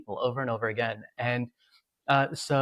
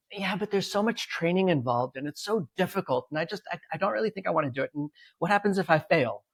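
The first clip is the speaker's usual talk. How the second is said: lightly voiced, a bit higher and unsure; hesitant Jordan; 5 semitones higher than usual. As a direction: play him doubting himself, mildly. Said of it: "He goes".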